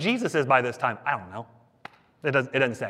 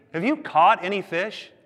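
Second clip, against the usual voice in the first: teasing question, pitched up; zinging; 4 semitones higher than usual. Acted. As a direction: ask it knowing the answer is no. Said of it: "knows how to zing people".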